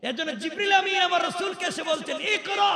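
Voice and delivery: high, ringing sermon call; loud high-pitched proclamation; preaching shout. Retold or imitated. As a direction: lift the voice high and proclaim the command. Preacher calls out the angel's command.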